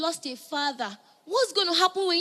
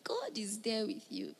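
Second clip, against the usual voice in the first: soft unvoiced whisper of comfort; a hushed reassurance; tender whisper; 4 semitones lower, 10 dB quieter than usual. Real, not acted. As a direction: breathe it to them gently.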